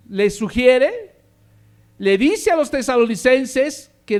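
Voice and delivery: full-force preaching. Acted. Pastor urging the church to pray, preaching loudly. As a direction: preach it out loud to the congregation.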